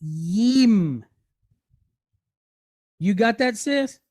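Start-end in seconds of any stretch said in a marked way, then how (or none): 0.0-1.0 "yim" opened with a y consonant, drawn out; syllable pronunciation. Shown as a demonstration. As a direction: sound out "yim" alone, low. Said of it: "we pronounce the second as".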